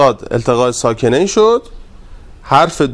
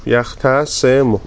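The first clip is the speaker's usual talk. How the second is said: slow drill; much slower than usual. Shown as a demonstration. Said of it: "teacher drills the form".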